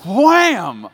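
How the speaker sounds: high, loud smack of a word; full wham. Retold or imitated. Husband reenacting pillow hit across face, loud high wham. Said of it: "Across the face".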